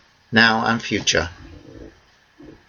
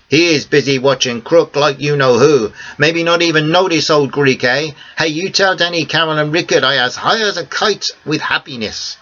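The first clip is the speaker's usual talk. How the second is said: put-on higher, conspiratorial old Greek man; a bit higher, a friendly old Greek man sharing a secret; Theo's voice; 5 semitones higher than usual. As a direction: Greek cafe owner promising silence, pleased. Theo jokes happily.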